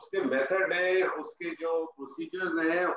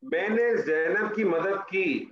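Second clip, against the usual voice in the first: slow dictation; slower than usual. Shown as a demonstration. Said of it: "ٹھیک ہے".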